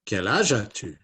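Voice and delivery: understated puppet question, no squeak; Matisse puppet voice. Acted. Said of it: "Matisse and Inez".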